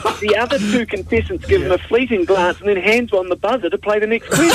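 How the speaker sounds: high, amused telling; barely keeping a straight face; laughing. Real, not acted. Laughing while telling story.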